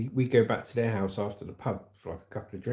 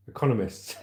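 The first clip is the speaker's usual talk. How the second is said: laughing stumble. Real, not acted. Streamer laughing at a hard word in the article. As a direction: say "Economists." through a laugh, tripping on it. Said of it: "Oh, I'm learning new words".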